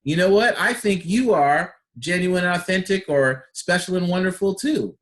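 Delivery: grateful reply to a compliment; grateful thanks. Shown as a demonstration. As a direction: thank them and mean it.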